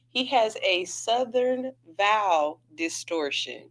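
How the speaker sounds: slow, measured mock-official diagnosis; mock eloquent. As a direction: pronounce it slowly, like a formal verdict. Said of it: "the most eloquent way of saying".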